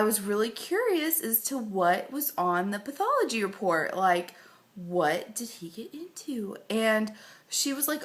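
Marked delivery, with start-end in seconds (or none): 4.8-6.6 whisper. Retold or imitated. Curious question to the vet.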